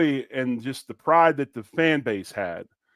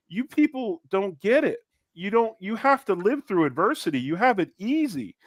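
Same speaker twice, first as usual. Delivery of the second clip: higher, fast exasperated scolding; exasperated rant; 6 semitones higher than usual. Acted. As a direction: lecture them, fed up. Ranting at impatient fans.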